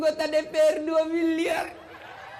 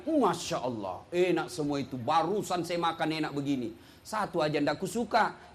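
put-on low, soft old man's voice; father answering child after restaurant meal, low voice; 10 semitones lower, 5 dB quieter than usual. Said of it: "dia bilang anaknya".

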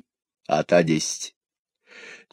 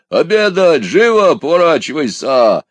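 high, raised-voice commands; shouted orders; 7 semitones higher, 5 dB louder than usual. A narrator's reading. Tired husband demands dinner from his wife, high impatient shout. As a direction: order them about impatiently, pitched high. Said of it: "и закричал".

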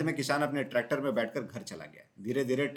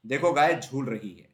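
louder, thrilled cry from the swing; delighted cry; 7 dB louder than usual. A narrator's reading. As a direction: let the joy burst out.

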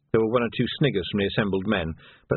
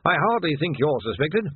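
higher, gently reassuring captain; little smile; 7 semitones higher than usual. A narrator's reading. Captain tells his sergeant he is trusted, lightly smiling. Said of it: "said Tilden with a little smile".

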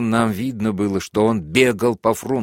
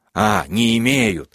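lower tone; 2 semitones higher, 3 dB louder, slower than usual. A narrator's reading. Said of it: "проговорил он двумя тонами ниже".

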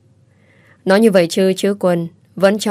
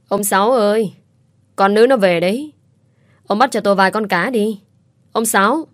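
put-on bossy old neighbour hollering for her husband; calling out loudly; 3 semitones higher than usual. Old woman calls her husband to catch fish, mildly raised call. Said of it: "Miệng thì la oai oái".

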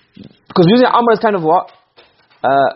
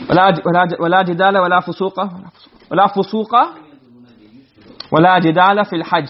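rapid recited Arabic; quick Arabic recitation; fast recitation; much faster than usual. Shown as a demonstration. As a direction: reel off the verse quickly. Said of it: "remember the same example".

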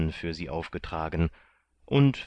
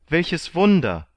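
high, loud cry of amazement; amazed exclamation; 11 semitones higher, 7 dB louder than usual. A narrator's reading. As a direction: call out high and loud in wonder. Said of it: "rief Kandid".

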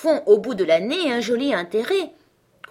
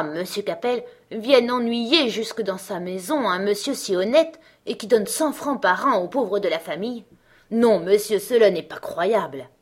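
mock tender outcry; 3 semitones higher, 4 dB louder than usual. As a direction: play falsely moved servant, hammering des rats. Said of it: "d'un air attendri, la tête sur le côté, s'écria".

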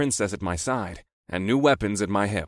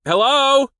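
high, loud holler over shouting; 9 dB louder than usual. A narrator's reading. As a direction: holler into the phone. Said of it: "raised my voice to hollering volume".

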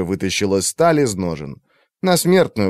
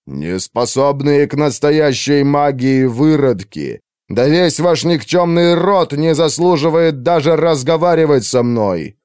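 slow, louder contemptuous tirade; furious mage; 4 semitones higher, 4 dB louder than usual. Acted. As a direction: pour scorn on the whole race. Furious mage insulting the elves. (разъярённый маг презрительно кричит на эльфов)

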